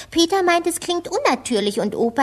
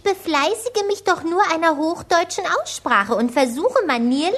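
stilted posh german; 5 semitones higher than usual. Acted. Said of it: "dass sie sich hochdeutsch benehmen kann".

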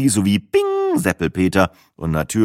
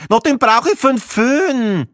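slow, much higher, louder brusque Viennese retort; gruff; 5 dB louder, slower than usual. A narrator's reading. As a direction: brush him off rudely. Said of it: "ein unwirsches". (unwirsch und langsam, wienerisch)

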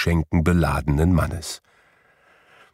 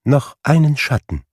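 ghost calling out; 7 semitones higher than usual. Acted. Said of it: "rief der Geist aus".

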